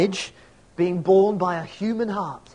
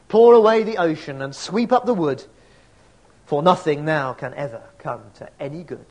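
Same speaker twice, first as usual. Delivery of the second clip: poem recitation. Acted. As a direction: recite it like a mourner at a graveside. Continues the poem.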